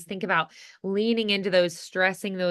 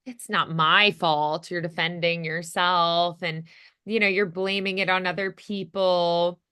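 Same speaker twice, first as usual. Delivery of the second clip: dismissive. Shown as a demonstration. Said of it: "at first you're kind of dismissive".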